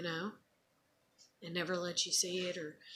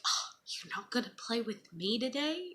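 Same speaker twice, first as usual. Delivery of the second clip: mock hurt, pitched up; playful teasing; 5 semitones higher than usual. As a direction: tease the kid with fake disappointment. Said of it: "I'd kinda tease her and be like".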